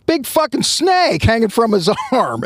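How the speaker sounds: high, laughing mock alarm; alarmed inner thought. Chief's brain realizing the snake, laughing alarm. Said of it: "his brain processes".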